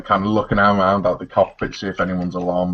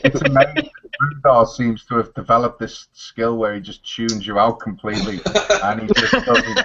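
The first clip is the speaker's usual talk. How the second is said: laughing; 3 semitones higher than usual. Real, not acted. Teasing while laughing.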